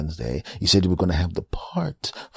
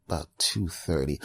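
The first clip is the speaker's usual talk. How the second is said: hesitant caller; 2 semitones lower, 6 dB quieter than usual. Pretend. Caller voiced quietly.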